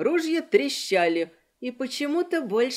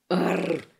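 bestial growl; 5 semitones lower than usual. Acted. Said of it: "по-звериному зарычав".

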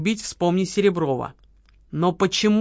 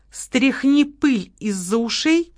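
mocking advice; 5 semitones higher, slower than usual. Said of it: "посоветовала Лола".

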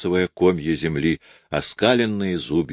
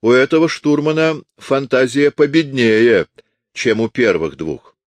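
louder, higher merry jibe; cheerful young voice; 6 semitones higher, 4 dB louder than usual. A narrator's reading. Onlooker mocking the fake navigator, cheerful. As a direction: tease him with a grin in the voice. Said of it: "раздался весёлый молодой голос".

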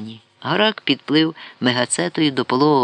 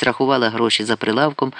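plain reading voice

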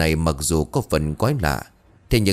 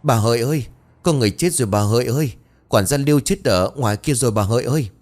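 stammering in fright; 4 semitones higher, faster than usual. Acted. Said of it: "mà lắp bắp".

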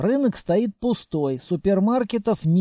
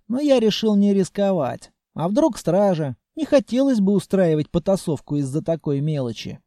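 ordinary delivery

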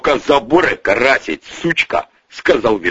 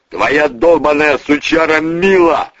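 higher-pitched snarled accusation; angry growl; 6 semitones higher, 3 dB louder than usual. Acted. The boss blames Bonik's woman, snarling. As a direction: spit out the blame. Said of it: "зарычал огнемёт".

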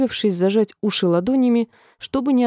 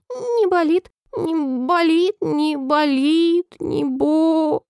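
высокий голос, переходящий в протяжное блеяние; растягивай слова всё сильнее, пока не заблеешь овцой; овечье блеяние; 8 semitones higher, much slower than usual. A narrator's reading. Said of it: "а овца проблеяла". (блея, как овца)

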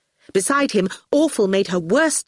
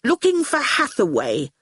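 put-on higher, mildly sulky boy; rather sulky; 5 semitones higher than usual. Howard answers Catriona, rather sulkily. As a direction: answer with a touch of sulk. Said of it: "rather sulkily".

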